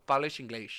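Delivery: "fales inglês" with sh for each final s; shushed S sounds. Shown as a demonstration. Traveler repeating Portuguese phrase, "fales inglês" with sh endings. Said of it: "there's a shush on the both".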